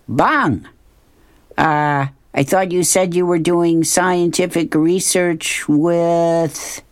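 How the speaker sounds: a stunned knight catching his friend out; Sir Rodney. Acted. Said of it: "he opens the door and he says".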